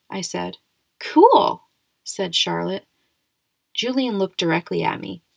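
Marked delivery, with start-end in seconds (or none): 1.0-1.6 high, loud, delighted cool; bright cool. Acted. Charlotte answers the science choice, high and loud.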